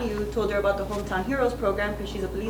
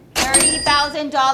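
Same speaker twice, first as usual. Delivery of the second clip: louder and higher voice; 6 semitones higher, 8 dB louder than usual. Answering how much the commissions came to, after being asked again: said louder. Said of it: "Say it louder".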